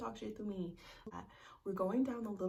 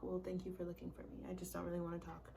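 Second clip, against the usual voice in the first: cold brush-off; 6 dB quieter than usual. Retold or imitated.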